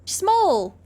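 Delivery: sudden high yelp of a name; barked name. Acted. GM voicing a tiny kobold, a high barked yelp. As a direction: bark it out like a small kobold. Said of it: "they bark".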